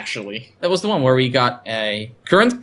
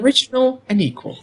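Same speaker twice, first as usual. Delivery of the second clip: lilting villain; 10 semitones higher than usual. Retold or imitated. Quoting the villain.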